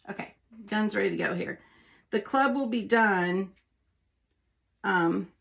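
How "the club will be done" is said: talking with tongue sticking out. Real, not acted. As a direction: say it with your tongue out. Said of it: "I have to have my tongue sticking out".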